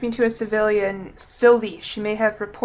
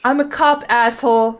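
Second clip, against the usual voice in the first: mock tough cop; 8 dB louder than usual. Mock tough retort to NPC.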